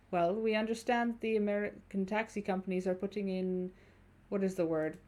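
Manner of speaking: lightly voiced German-accented stranger; measured German-accented speech. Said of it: "I think my German accent".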